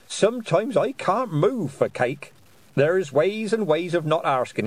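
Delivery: jolly witch boasting of cake; cheerful old witch. A narrator's reading. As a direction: chuckle through it fondly. Ogg happily.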